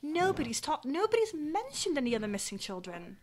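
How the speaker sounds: lightly voiced worried parent, lively and insistent; worried parent character. Parent tells adventurer of missing children, mildly exasperated. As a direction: plead the case with mild frustration.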